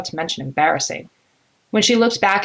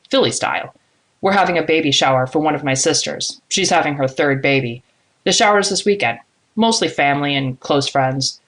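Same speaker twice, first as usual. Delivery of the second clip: slightly lowered male character, friendly pitch; lightly voiced man, inviting. Man invites a colleague to his sister's baby shower, lightly voiced and friendly. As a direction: lightly play a man making a casual invitation.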